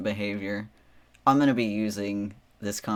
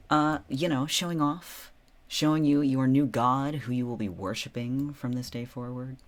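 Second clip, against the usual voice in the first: grand god voice, a touch louder; mock deity; 4 semitones higher, 3 dB louder than usual. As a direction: proclaim yourself their new god. Plays a god to viewers.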